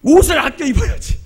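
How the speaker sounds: loud, high-pitched outburst; re-enacted angry yell; angry scolding. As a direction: burst out scolding in exasperation. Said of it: "그러면 제가 화가 나".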